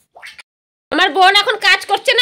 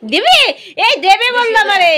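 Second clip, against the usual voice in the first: mock whimper; 4 semitones higher, 5 dB louder than usual. Mother begs child for cake.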